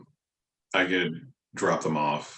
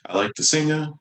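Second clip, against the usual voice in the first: gargling voice; 7 semitones higher, 3 dB louder, faster than usual. Acted. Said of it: "like, gargling voice".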